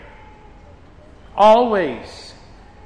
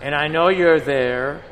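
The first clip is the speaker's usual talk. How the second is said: stern rebuke, raised and louder; 4 dB louder than usual. Retold or imitated. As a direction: thunder down at the proud sinner. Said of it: "And our Lord says".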